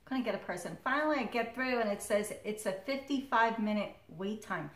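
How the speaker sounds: ordinary talk, nothing marked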